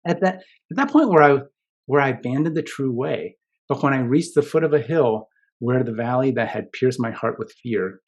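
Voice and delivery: measured literary reading of a poem; gentle recital of Dante; reading a passage aloud. Acted. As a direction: read it like a text you admire.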